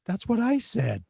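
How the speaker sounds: retelling to his wife, mock indignant and laughing; exasperated disbelief. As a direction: throw up your hands at the unfairness. Exasperated at wife in retold story.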